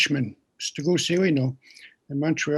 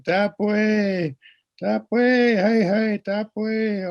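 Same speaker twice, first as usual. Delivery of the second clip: eager agreeing; 6 semitones higher, 4 dB louder, much slower than usual. Retold or imitated. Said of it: "he kept saying".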